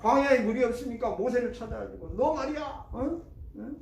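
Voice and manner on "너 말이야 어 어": grumbling Israelites. Retold or imitated. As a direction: confront Moses with blame. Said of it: "하면서 막 원망하고". (모세에게 따지는 백성들, 높고 크게 원망)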